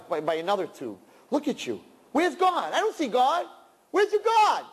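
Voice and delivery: mocking voice that climbs to a high shout; taunting Satan. Satan taunting a dying man on a respirator, mocking and building to a shout. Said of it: "And he says".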